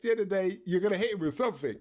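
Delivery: ordinary delivery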